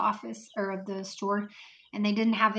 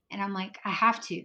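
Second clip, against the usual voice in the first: usual speaking voice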